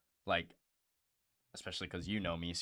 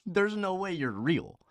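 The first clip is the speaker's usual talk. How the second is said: incredulous laughing quote; 10 semitones higher, 7 dB louder than usual. Retold or imitated. Podcaster retelling a ridiculous conversation, laughing in disbelief. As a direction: laugh it out, can't believe this guy. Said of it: "I'm like".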